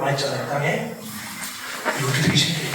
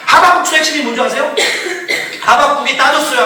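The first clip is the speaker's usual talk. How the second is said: ordinary talk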